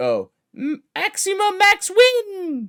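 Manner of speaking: shrill, very loud, very slow sing-song, "win" stretched. Podcast host announcing his alter ego's name, in Ubu voice. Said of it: "Say it in the best Ubu voice".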